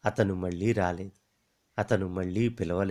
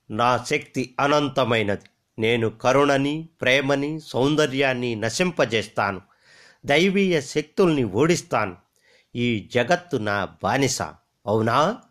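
evil jewel boasting; 3 semitones higher, 5 dB louder than usual. Acted.

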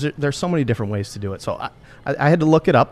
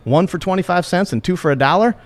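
reading a slang example; 4 semitones higher than usual. Retold or imitated. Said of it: "it's used in a sentence".

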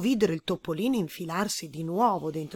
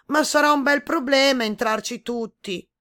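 higher, louder doubtful voice; worried animals; 6 semitones higher, 7 dB louder than usual. A narrator's reading. Animals warning the boar, worried. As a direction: warn that it will be a tight squeeze. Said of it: "risposero gli animali".

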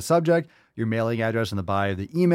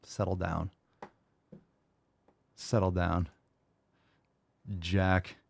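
settle down; 5 semitones lower, 9 dB quieter, slower than usual. Real, not acted. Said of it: "calming self".

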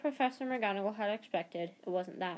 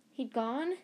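frantic; 5 semitones higher than usual. Acted. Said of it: "said Harry frantically".

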